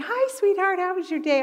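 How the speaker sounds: high, bright greeting to husband; wife welcoming husband home with a high sweet hello. Retold or imitated. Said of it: "I always wanna say".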